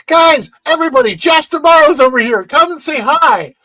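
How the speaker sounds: loud, high calling-out to a group; imitated excited shout. Lifeguard calling coworkers over to greet an executive, imitated shouting. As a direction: holler it across to everybody, mimicking the guy. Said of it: "the guy goes".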